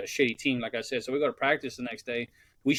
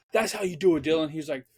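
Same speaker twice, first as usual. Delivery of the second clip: mock the coach's fake praise; lightly voiced upbeat coach; imitating the coach; 4 semitones higher than usual. Coach praising player Dylan.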